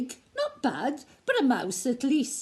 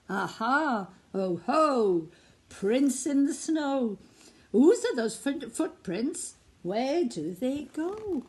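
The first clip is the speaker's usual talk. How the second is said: mouse's voice; 3 semitones higher than usual. Acted. Mouse mimics the child.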